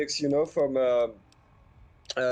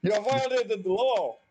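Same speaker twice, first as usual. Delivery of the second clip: stern lawman voice; 6 semitones higher than usual. Acted. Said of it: "I'm just imagining her saying it like that".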